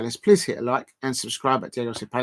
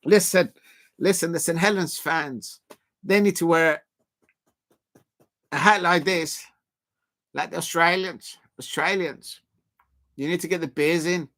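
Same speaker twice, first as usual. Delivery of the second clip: a lightly put-on, bad Australian accent, a bit higher; jokey mock Australian accent, only half there; 4 semitones higher than usual. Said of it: "that's a very bad Australian accent".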